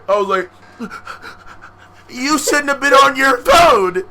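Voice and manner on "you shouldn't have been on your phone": loud slow retort to the bullies; mock defiant shout. To bullies demanding his phone, a loud slow retort. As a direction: throw it back at them, loud and drawn out.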